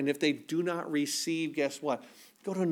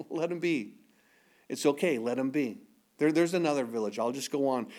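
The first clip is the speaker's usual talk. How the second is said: softer, easy release; calm letting go; 4 semitones lower, 3 dB quieter than usual. Retold or imitated. Preacher voicing Jesus walking on, softer and calm. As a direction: let it go gently.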